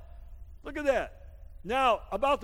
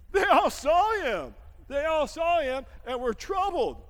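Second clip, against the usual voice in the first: emphatic preaching shout; 4 semitones higher, 4 dB louder than usual. Acted. Preacher repeating the verse to the church, emphatic shout. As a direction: drive the line home to the congregation.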